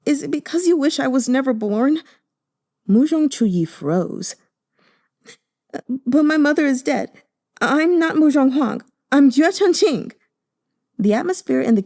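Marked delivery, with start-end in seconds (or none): 0.0-10.1 high, anguished outburst; tearful. Acted. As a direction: cry it out, voice high and raw. Sobbing nephew confronts uncle.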